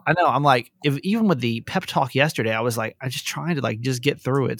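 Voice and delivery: talking around canker sores on both lips; mouth held open. Real, not acted. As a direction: lips kept apart, words a bit loose. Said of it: "can't close my mouth all the way".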